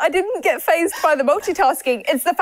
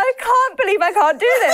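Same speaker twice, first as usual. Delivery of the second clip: laughing; 6 semitones higher than usual. Real, not acted. Laughing at own failure.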